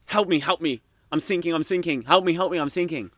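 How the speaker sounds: lightly acted cry for help; panicked sailor. Joke's sinking sailor calling the coast guard, mild mock panic.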